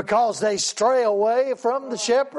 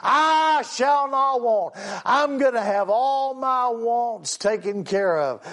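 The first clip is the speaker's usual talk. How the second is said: mock confident claim. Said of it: "everybody wants to claim that".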